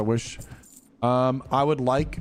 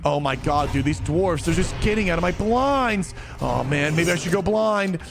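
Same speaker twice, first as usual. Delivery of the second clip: much higher, whining mock complaint, slowing on the end; whiny player; 7 semitones higher than usual. Streamer mocking a player who wants to switch to dwarf, much higher whiny voice. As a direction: ham up a gamer moaning about dwarfs and blinds. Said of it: "you're gonna be like".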